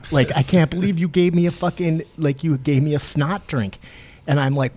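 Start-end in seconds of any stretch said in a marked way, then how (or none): 0.3-3.8 mock angry. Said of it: "fucking pissed".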